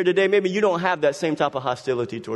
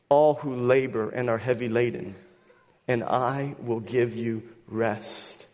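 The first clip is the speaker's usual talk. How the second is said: gentle reading. Acted. Reading Christ's words tenderly.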